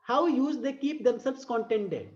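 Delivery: slow, sing-song poem reading; drawn-out recital voice; poem recitation. Shown as a demonstration. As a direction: read it out like a verse for class.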